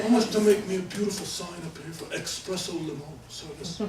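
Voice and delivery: mock client voice with a laugh; imitating Restivo. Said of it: "he really did talk like that".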